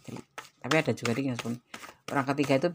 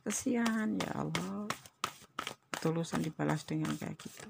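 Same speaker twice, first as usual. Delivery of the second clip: near tears; 4 semitones higher, 6 dB quieter than usual. Real, not acted. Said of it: "Kayak mau nangis".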